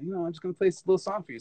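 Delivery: hurried Australian stage patter; offensive Australian accent. Retold or imitated. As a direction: rattle it off in an imitated Australian accent. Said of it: "let me do an offensive accent".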